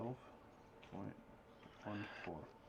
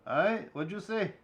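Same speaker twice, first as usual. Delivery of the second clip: high, loud dwarven "Aye?"; a brisk dwarf questioning; dwarven accent; 7 semitones higher, 3 dB louder than usual. Acted. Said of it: "dwarven kind of accent".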